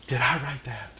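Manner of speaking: tease, half laughing; amused mock question. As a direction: guru mocking the student, amused. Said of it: "just like me, he goes".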